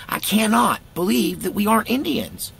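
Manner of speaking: high, loud incredulity; storyteller stunned by his heritage, high and loud; disbelief. Real, not acted. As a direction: exclaim it in disbelief. Disbelief at DNA result.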